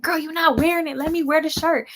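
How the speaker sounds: high-pitched pestering demand; mock sibling squabble, high voice; retold insistence. Retells arguing with sister over shirt.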